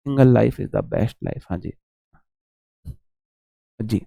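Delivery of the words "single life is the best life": slow quoted slogan. Retold or imitated. Repeats the saying.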